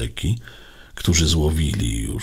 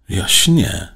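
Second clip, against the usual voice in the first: raised, louder stunned exclamation; higher, louder astonished voice; stunned disbelief; 4 semitones higher, 7 dB louder than usual. A narrator's reading. Startled boy in narrated story.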